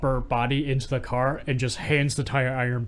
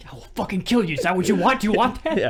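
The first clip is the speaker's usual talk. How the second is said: mock threat; 8 semitones higher, 4 dB louder, faster than usual. S1 echoes villain's threat.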